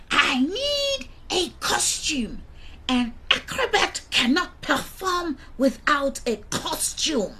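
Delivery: high, squealed demand; loud pig. Acted. Pig demanding a costume to perform, loud. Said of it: "said Sheila loudly".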